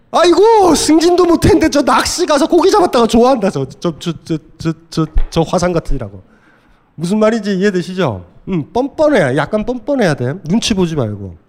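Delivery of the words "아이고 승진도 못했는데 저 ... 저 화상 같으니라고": high, loud wailing mock lament, fading into muttered tutting; lamenting wife. Lecturer playing a wife wailing over her unpromoted husband. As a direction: wail then grumble at the hopeless husband.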